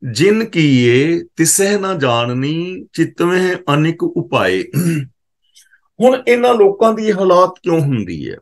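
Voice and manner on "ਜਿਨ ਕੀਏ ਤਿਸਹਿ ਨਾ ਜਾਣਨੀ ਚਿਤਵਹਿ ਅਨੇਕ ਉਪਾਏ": slow, measured intoning of the verse; scripture recitation. Acted. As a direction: draw out each word reverently.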